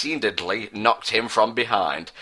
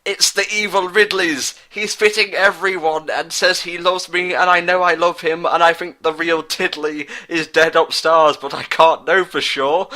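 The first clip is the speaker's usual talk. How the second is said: put-on much higher, pleading girl's voice; tearful girl; 7 semitones higher, 3 dB louder than usual. Samus tearfully telling the boys about Ridley, high and pleading. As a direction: speak high and torn like a weepy heroine. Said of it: "with tears in her eyes".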